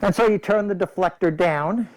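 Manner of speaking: talking through a respirator mask; words muffled behind a face mask. Real, not acted. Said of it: "I hope you can hear me through this mask".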